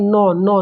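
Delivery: teacher showing the students where नौ is felt; demonstrating the sound नौ. Shown as a demonstration. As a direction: say नौ twice, open and nasal. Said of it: "नौ बोल के देखिए एक बार".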